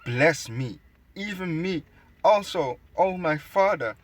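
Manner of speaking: high whiny mock-sob, hammed-up; mock crying plea. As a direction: whine it like an overdone crybaby. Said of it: "Exceeding bitter cry".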